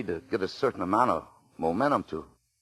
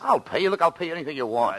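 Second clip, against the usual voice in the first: desperate pleading; 10 semitones higher than usual. Acted. Begging the bartender at gunpoint.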